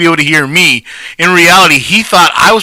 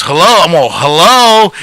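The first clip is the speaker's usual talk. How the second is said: higher, questioning hellos, traded back and forth; escalating phone hellos; 3 semitones higher than usual. Retold or imitated. Friend acts out both callers failing to connect, escalating hellos. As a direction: act out two callers who can't hear. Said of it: "we're both going like that".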